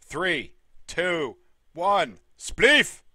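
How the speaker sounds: measured countdown, punched final word; match announcer. Real, not acted.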